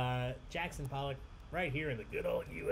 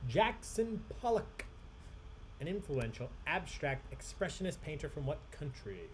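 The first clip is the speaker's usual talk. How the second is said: repeated question, softer; 4 dB quieter than usual. Shown as a demonstration. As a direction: say it again for anyone who missed it.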